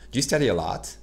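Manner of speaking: "Do you" merged into "ju"; "Do you study a lot?" with do you squeezed to ju; swallowed do you. Shown as a demonstration. Teacher showing how natives say it. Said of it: "balancez ça comme ça".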